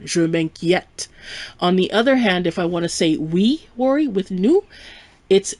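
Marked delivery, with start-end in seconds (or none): 0.0-1.1 "je m'inquiète" slow, ending on open "eh" plus t; open eh sound. Shown as a demonstration. Teacher repeating for learners, "m'inquiète" with open eh. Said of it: "with an eh sound".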